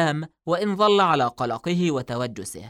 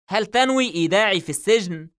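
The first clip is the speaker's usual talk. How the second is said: apprehensive; 5 semitones higher, 6 dB louder than usual. A narrator's reading. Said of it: "في توجس وهو يقول".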